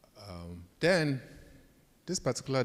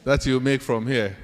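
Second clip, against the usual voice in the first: retold scolding; 4 semitones higher, 8 dB louder than usual. Angry supervisor scolding him.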